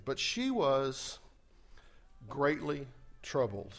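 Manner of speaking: slowed, drawn-out reading of greatly troubled; drawn-out scripture reading; slow emphasis. Shown as a demonstration. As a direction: lean on every word of greatly troubled. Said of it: "Look at that beginning".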